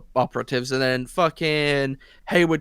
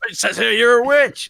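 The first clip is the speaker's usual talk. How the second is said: higher, louder hammed-up Agatha; villain gloating as she reveals her proof, in a hammed-up voice; mock Agatha voice; 8 semitones higher, 6 dB louder than usual. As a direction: ham up a gloating witch reading out her proof. Voicing Agatha reading the book.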